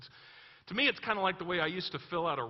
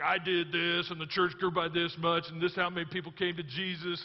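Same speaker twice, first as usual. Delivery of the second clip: loud, insistent mock brag; mock resume boasting; bragging; 4 dB louder than usual. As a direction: reel off achievements boastfully. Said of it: "You gotta brag".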